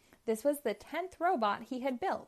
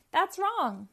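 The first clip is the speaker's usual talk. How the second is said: high, loud cry of no; dismayed cry; 9 semitones higher, 6 dB louder than usual. Acted. Robotnik watching his robot break itself, high dismayed cry. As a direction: wail as the robot fails. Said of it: "cried Robotnik".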